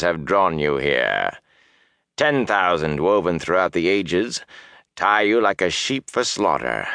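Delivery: lightly voiced sinister villain; a hint of gloating menace; menacing dark lord. Baalzamon speech voiced.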